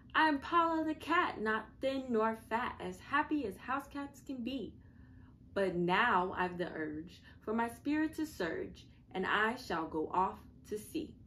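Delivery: high, loud proud cat call; cat shouting out loud. Acted. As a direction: shout it out like a cat setting sail. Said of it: "she boarded and shouted out loud".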